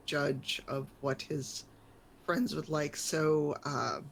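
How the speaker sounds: polite adult customer. Acted.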